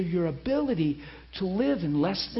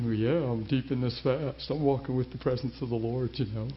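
self-assured; 8 semitones lower, 4 dB quieter than usual. Retold or imitated. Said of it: "I was like, I'm thinking".

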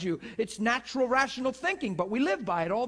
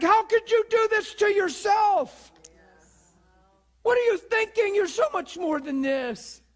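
concerned rebuke; 8 semitones higher, 4 dB louder than usual. Retold or imitated. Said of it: "I wonder why we don't think".

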